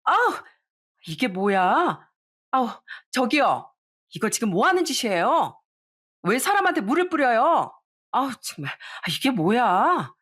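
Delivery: startled shriek, then flustered protest; mock outraged yelp at being splashed; shrieking in shock. Bride shrieks at the employee after water is thrown, startled shriek. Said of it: "예비 신부가 소리를 지르더라고요".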